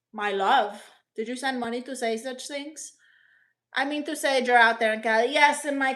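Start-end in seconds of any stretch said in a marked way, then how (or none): 0.1-0.8 sigh, then a skeptical lower "my love?"; incredulous echo. Real, not acted. Streamer scoffing at a viewer's flirty comment, sighing, unimpressed. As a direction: repeat it as if you can't believe it.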